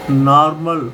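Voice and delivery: "नॉर्मल" with a long open AA, as naar-mal; AA sound. Shown as a demonstration. Teacher reads out the example word, "नॉर्मल" as naar-mal. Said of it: "ओ को आ पढ़ेंगे".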